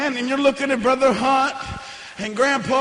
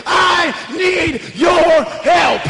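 retold shouted prayer; 2 semitones higher than usual. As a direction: cry out to Jesus for help. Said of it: "enough unction inside of me to say".

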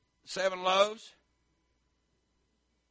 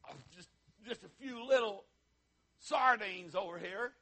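mock sheepish; 4 semitones higher than usual. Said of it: "What have you got?".

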